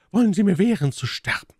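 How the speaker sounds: high, indignant lady's cry; indignant challenge. Acted. Milady defies the guards. (hohe, empörte Frauenstimme)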